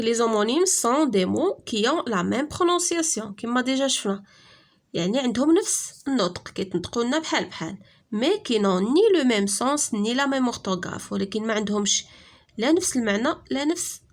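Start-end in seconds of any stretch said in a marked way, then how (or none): 0.0-3.3 measured dictation pace; slow rule reading. Shown as a demonstration. Teacher reading the lesson rule to pupils, slow and clear. 8.1-11.1 measured dictation pace; slow rule reading. Shown as a demonstration. Teacher reading the lesson rule to pupils, slow and clear.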